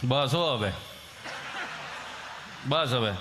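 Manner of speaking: a hint of a gruff father hushing the child. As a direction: cut the crying off like a stern dad. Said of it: "એક તો ઠાકો પાકો આવ્યો હોય કે".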